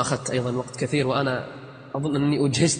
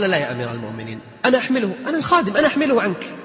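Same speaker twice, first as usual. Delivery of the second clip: servant protesting; 3 semitones higher, faster than usual. Acted.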